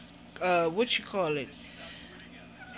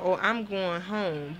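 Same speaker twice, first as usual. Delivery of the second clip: slow mocking mimic; slower than usual. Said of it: "got a nerve to fucking talking about".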